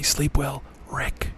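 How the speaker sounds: soft unvoiced whisper; whispered goodnight. Shown as a demonstration. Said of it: "you wanna say".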